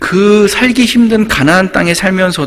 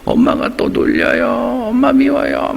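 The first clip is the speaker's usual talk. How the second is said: mock whining little kid, high and drawn-out; high-pitched, slow mock crying; imitated tearful child; 8 semitones higher, slower than usual. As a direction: play a child tattling through tears. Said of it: "거의 울면서 이제 저한테".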